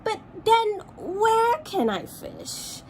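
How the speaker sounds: sad kingfisher. Acted. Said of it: "said the kingfisher sadly".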